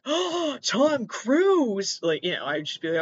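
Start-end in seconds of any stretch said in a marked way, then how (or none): 0.0-2.0 high mock gasp of recognition; starstruck squeal. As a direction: play a fan spotting a star. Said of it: "and then not be like".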